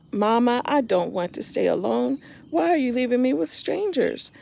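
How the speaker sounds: put-on a scared little boy begging mama to stay; frightened child pleading.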